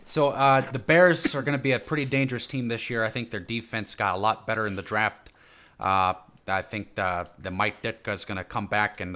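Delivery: lightly put-on Chicago accent, starting loud; a touch of mock Chicago Bears-fan accent. Podcaster back in character after being scolded, mock Chicago accent. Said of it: "stay in character".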